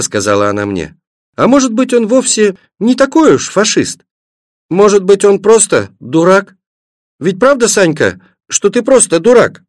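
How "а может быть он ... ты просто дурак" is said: put-on high, lilting little-girl voice; tender pleading question. A narrator's reading. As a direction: coax gently in a raised, childlike pitch. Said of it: "спросила Светлана и ласково". (ласковый детский вопрос)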